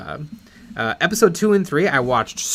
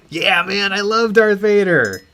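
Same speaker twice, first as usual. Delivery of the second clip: mock-thrilled fan, higher and louder; Patton Oswalt; 4 semitones higher, 4 dB louder, slower than usual. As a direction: gush like an excited fan. Acting the thrilled fan's reply.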